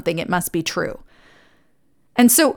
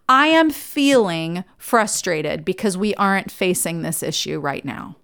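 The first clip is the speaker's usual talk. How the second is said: slow measured feeling statement; 3 semitones lower, 3 dB quieter than usual. Shown as a demonstration. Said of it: "right example".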